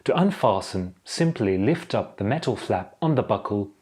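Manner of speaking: measured, formal safety briefing; formal airline safety announcement. Acted. Cabin crew briefing passengers on seat belts, formal and measured. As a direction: deliver it like cabin safety instructions. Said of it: "the way someone would deliver airline safety instructions".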